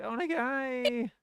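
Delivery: high, drawn-out mock begging; imitated plea. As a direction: mimic an aimless, stretched plea. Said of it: "kinda like, I was like".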